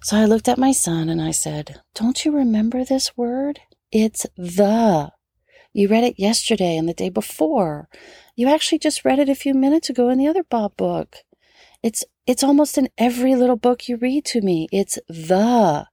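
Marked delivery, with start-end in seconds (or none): 1.9-14.7 exasperated, higher and quicker at times; a mom losing patience, pressing harder; frustrated. Retold or imitated. Mom frustrated at her son forgetting a word, exasperated. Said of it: "I was a bit frustrated too". 14.7-15.9 "the" pressed hard and falling; stress on the. Retold or imitated. Mom drilling a word into her son, "the" heavily stressed. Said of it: "I really emphasized the word the".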